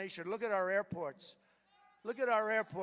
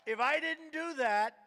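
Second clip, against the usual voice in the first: slow, higher, louder; slow emphatic hypothetical; 7 semitones higher, 6 dB louder than usual. Shown as a demonstration. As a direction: lean hard on each word.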